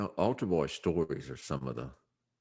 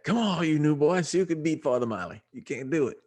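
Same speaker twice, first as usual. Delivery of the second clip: teasing priest; 11 semitones higher than usual. Retold or imitated. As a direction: goad the new boys like the old priest. Priest taunting boys at pool.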